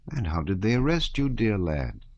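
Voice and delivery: lilting, tender questioning; sympathetic, homely curiosity; kindly peasant soldier. Acted. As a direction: ask the dear lad in gentle sing-song. Soldier gently questions Pierre in sing-song.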